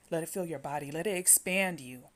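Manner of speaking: rising in force; from firm to loud. Shown as a demonstration. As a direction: swell the voice as the breath fills. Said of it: "builds the breathing command".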